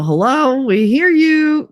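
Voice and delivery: pointed hello. Retold or imitated. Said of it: "to let them know".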